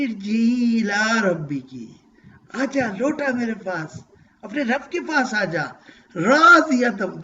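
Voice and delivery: loving call. Acted. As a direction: call them home with love, slowly on الی ربی. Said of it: "کتنے پیار سے کہہ رہے". (اللہ کی طرف سے پیار بھری پکار)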